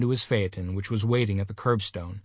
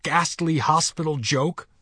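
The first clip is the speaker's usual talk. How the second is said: higher, slow, outraged question; thundering rage; 6 semitones higher, 3 dB louder than usual. A narrator's reading. Mister Button accuses the nurse, raging. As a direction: hammer out each word in outrage. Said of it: "thundered Mister Button, his terror resolving into rage".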